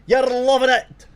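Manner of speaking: high, loud gleeful shout; real delight bursting out loud; excited shout. Real, not acted. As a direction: crow it out to the whole room. Gloating over Scotland stack rewards.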